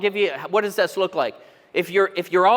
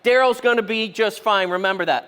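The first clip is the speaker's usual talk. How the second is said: reassuring self-talk; 4 dB louder than usual. Shown as a demonstration. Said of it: "Practice that kind of stuff".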